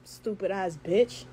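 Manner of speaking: slow, low, disgusted insult; drawn-out scornful put-down; contemptuous low mutter. Real, not acted. Insulting the girl on live.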